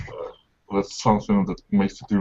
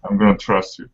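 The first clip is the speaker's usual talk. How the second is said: said again louder so it carries; repeated clearly; 3 dB louder than usual. Real, not acted. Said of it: "sorry, what was that?".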